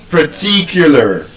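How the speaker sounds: slow "particular" with long stressed TI; "particular" with schwa in first and last syllables; correct schwa pronunciation. Shown as a demonstration. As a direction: stretch the second syllable of "particular". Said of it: "You can see how different it sounds".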